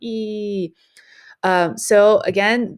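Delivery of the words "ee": short, softer imitated squeal of delight; a quick playful "ee" like an excited squeal; mock squeal. Teacher imitating Courtney's excited squeal for students, mock squeal. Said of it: "creates this squealing sound".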